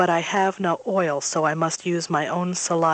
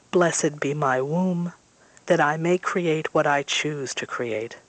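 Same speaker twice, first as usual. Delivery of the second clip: ritual blessing. A narrator's reading. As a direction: intone it like a sacred rite, unhurried.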